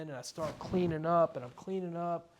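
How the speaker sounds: touch of real emotion, pitched slightly up; getting moved while retelling, repeating it insistently; a little emotional. Real, not acted. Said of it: "Sorry, I get a little emotional".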